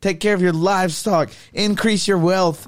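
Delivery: lightly acted righteous complaint; aggrieved Jacob. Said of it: "He's like".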